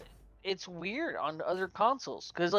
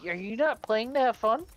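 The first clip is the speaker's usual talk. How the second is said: higher, pointed rhetorical question; mock disbelief; 5 semitones higher, 4 dB louder than usual. Gamer challenging kids who take it too seriously, mock disbelief. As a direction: needle a too-serious player with a raised pitch. Asks imagined over-serious player mockingly.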